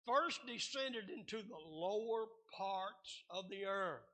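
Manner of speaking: deliberate, phrase-by-phrase reading; measured preacher's Bible reading; slow scripture reading. Real, not acted. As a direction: read the verse out slowly for the congregation. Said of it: "I'm gonna read it slow".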